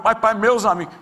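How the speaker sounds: high, loud whining protest; exasperated son. Retold or imitated. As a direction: whine it like a teen who's fed up. Son objecting again.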